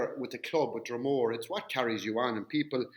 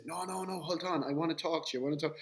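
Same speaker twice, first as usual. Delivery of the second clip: higher, softer retold plea; pleading protest; 4 semitones higher, 5 dB quieter than usual. Player pleading with two bouncers pulling him out, pleading. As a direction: hold them off with quick no-no-nos.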